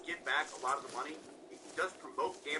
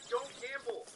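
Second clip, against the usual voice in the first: quoting the streamer; 6 semitones higher, slower than usual. Retold or imitated. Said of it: "he says".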